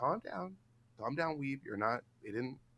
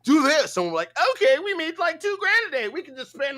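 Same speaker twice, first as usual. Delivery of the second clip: much higher, louder mock glee; mock excited voice; 11 semitones higher, 5 dB louder than usual. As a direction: play a giddy streamer counting money. Mocking themselves reacting to chat.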